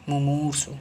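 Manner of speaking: मुमूर्षु with the middle vowel drawn long; corrected vowel length. Shown as a demonstration. Teacher correcting a vowel sign, मुमूर्षु with long middle vowel. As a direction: stretch the second syllable of मुमूर्षु. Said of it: "ये नहीं होगा, ये होगा".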